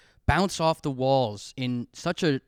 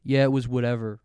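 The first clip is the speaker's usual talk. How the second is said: put-on sullen teen; 3 semitones lower than usual. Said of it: "audibly was just like".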